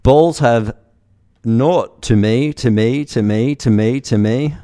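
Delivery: loud, slow, lilting bot voice; Alice voice. Pretend. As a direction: repeat each phrase with the same rising swoop. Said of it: "I better do an Alice voice".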